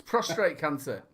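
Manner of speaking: "prostrate" for prostate, with an extra R; habitual mispronunciation. Real, not acted. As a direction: say "prostrate" with -trate at the end. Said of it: "you're saying prostrate".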